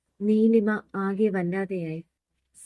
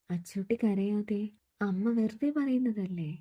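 put-on softer, gentle grandmother comforting a crying boy; soothing a child; 5 dB quieter than usual. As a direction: hush him kindly, softly. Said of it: "സമാധാനിപ്പിക്കാൻ പറഞ്ഞു".

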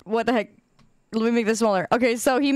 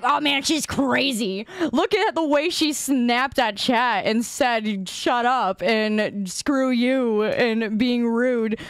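mock judging; much slower than usual. Mimics viewers judging her.

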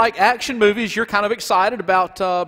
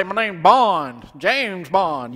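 Southern Bond; much slower than usual. Pretend. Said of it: "if he was Southern, he'd say".

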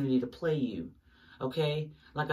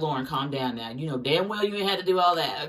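voicing Spirit scolding; 5 dB louder than usual. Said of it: "they sometimes be like".

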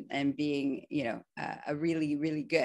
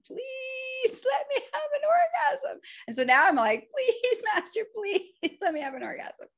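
pleading. Retold or imitated. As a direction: whine and plead with master, dramatised. Begging master in retold scene.

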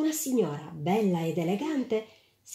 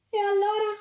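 detached; 13 semitones higher, 3 dB louder than usual. A narrator's reading. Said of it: "rispose la donna in modo distaccato".

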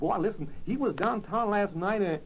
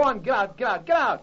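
shooing them off; 3 semitones higher, 3 dB louder than usual. Acted. Spud chases the teasing kids.

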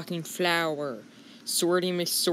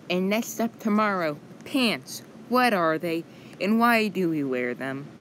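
news teaser voice; 2 semitones higher than usual. Acted. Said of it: "I'm Missus News Lady".

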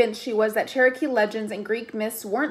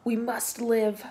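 slow, softer possessed voice; an otherworldly refusal; eerie spirit; 4 dB quieter, slower than usual. A narrator's reading. Possessed Leo refusing Piper, eerie.

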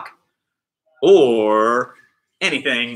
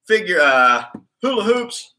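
box over head; 3 semitones higher than usual. Real, not acted. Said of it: "I always wonder when I got this box on if you can hear me".

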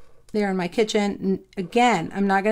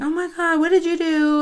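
retold dismayed scolding; 7 semitones higher than usual. Owner scolds dog slinking into kennel, retold dismay. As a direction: act out scolding the dog in a high voice.

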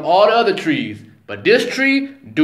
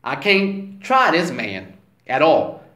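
low, hushed scheming devil; Satan scheming; 5 semitones lower than usual. Retold or imitated. Satan plotting to himself about Eve, in a low hush. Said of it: "he like".

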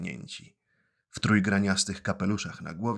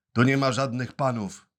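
hard, curt refusal; firm retort; 4 semitones higher, 5 dB louder than usual. Acted. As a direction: shut him down firmly. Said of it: "odparł twardo dyrektor".

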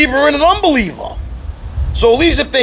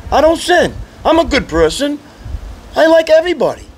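pitched up, smug and prim, a send-up of the good person; mock self-righteous churchgoer; 6 semitones higher than usual. Preacher mocking a sinless churchgoer for the congregation, pitched up and smug. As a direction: play the churchgoer who thinks she never sins.

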